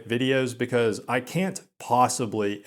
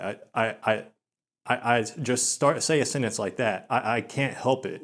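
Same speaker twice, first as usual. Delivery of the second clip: stutter demonstration. Shown as a demonstration. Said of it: "that was me just trying to give a demonstration".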